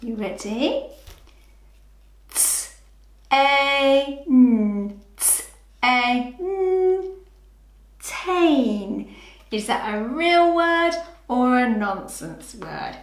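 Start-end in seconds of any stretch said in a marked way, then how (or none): 3.3-7.1 T-A-N sounded out letter by letter, clipped and loud; sounding out words. Shown as a demonstration. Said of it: "blend the sounds together". 8.0-9.1 tain said blended as one word. Shown as a demonstration. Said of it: "blend the sounds together".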